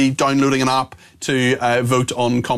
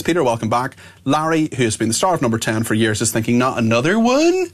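a light mock Bristol accent; hint of a West Country Bristol accent, ending on a weary question; Brenda from Bristol. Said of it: "the accent of Brenda from Bristol".

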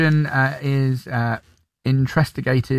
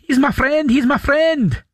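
put-on much higher, a child's Scottish accent, a touch Jamaican; young Scottish accent; 13 semitones higher, 3 dB louder than usual. Shown as a demonstration. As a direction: sound like a small Scottish kid. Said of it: "It's slightly Jamaican, but it's Scottish".

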